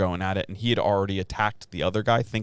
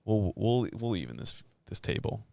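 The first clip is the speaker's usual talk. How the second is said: hushed vengeful vow; 5 dB quieter than usual. Retold or imitated. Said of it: "just being like".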